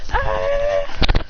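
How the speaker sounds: short rushing "ah!"; mock yell. Kids rushing to school, mock yell. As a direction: cry out while dashing along. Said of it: "rush to school going".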